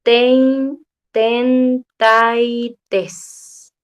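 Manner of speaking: each syllable said apart, the r dropped: tein, ten, tai, tes; syllables broken up and blurred, like through the chest wall; muffled thirty-three. Shown as a demonstration. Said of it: "Lo normal es que ustedes escuchen".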